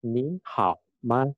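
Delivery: "Ni hao ma" slowly, word by word with clear tones; careful tone demo. Shown as a demonstration. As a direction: model each tone in "Ni hao ma". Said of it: "Nadanya diperhatikan". ("Ni hao ma" pelan dengan nada yang jelas)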